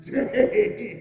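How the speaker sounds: slow, loud, high indignant outburst; outraged exclamation. Acted. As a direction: bellow the words in disbelief. Scrooge outraged at request.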